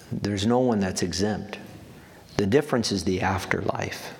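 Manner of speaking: normal talking voice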